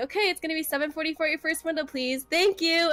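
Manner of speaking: nice order-taker patter, lifted at the end; customer-service voice. Shown as a demonstration. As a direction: give the total like a drive-thru worker. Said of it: "this is me in In-N-Out mode".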